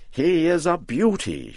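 put-on high cackly old woman, pleased with her work; high-pitched storybook witch admiring her scarecrow. A narrator's reading. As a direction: crow over your creation like a proud witch. Voices Mother Rigby the witch.

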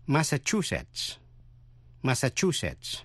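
Massachusetts as "mass-a-CHU-setts"; stress on third syllable. Shown as a demonstration. Teacher modelling a state name, Massachusetts stressed on the third syllable. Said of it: "Nhấn mạnh vần thứ ba".

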